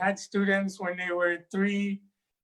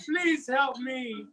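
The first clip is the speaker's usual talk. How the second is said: pleading snake; 5 semitones higher, 4 dB quieter than usual. Acted. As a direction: beg like a trapped creature. Trapped snake begs for help.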